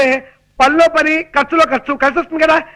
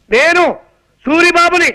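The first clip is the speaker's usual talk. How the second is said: raised, drawn-out call to be heard; shouting; 3 semitones higher, slower than usual. Acted. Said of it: "అంత గట్టిగా అరవకు నాయనా".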